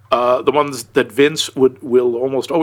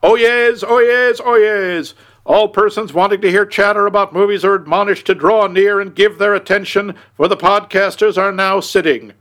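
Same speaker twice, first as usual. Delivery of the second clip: formal, raised courtroom crier voice; court bailiff; 4 semitones higher than usual. Pretend. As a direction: announce it like a Supreme Court bailiff. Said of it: "the way the bailiff opens the Supreme Court sessions".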